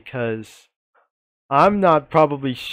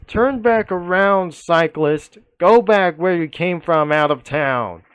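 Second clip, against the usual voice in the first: loud, higher order to turn back; police yelling; 4 semitones higher, 4 dB louder than usual. Retold or imitated. Another officer orders the cyclist out of town, loud yell. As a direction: shout the cyclist out of town like a cop. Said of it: "And another again that yells".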